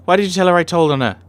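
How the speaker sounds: put-on high, loud, indignant child's voice; tattling child. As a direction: complain to Father like a wronged kid.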